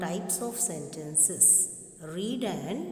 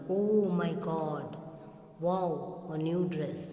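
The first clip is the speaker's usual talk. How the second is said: mock surprise. Shown as a demonstration. Teacher showing an exclamation, mild surprise. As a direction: read it like a pleasant shock. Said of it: "show surprise or excitement".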